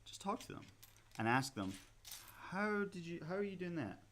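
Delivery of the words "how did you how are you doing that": higher, softer questioning voice; mild imitation of an admiring question; lightly acted curious questioner. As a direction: lightly act out asking an expert. Voices the question to ask experts.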